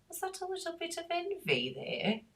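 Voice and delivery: very high-pitched mock English accent. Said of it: "Gotta say it in an English accent".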